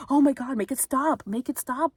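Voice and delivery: high, loud mock pleading; retold desperate plea. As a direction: imitate her begging in overwhelm. Retells neighbor's overloaded pleading.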